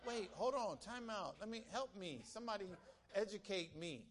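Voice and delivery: high, incredulous wait bro; mock disbelief. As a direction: pretend to stop him in disbelief. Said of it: "I'm like".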